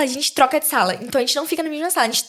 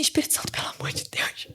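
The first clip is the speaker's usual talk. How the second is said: whispered, urgent prayer; whispered plea; 11 dB quieter than usual. Retold or imitated. A student whispering a desperate prayer to the Holy Spirit. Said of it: "Aí eu falei assim".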